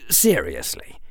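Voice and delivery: plain reading voice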